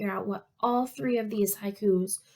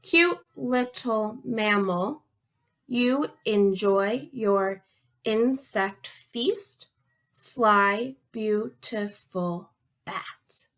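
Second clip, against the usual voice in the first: slow, deliberate recital; haiku reading; much slower than usual. Shown as a demonstration. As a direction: read the poem beat by beat for counting. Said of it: "Last one".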